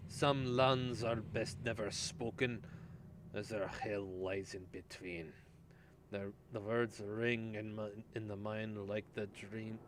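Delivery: put-on light German accent reading. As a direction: read it with a slight German accent. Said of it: "give up on the German accent".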